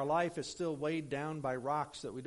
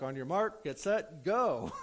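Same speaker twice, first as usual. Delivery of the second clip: retold race start call; 2 semitones higher, 5 dB louder, slower than usual.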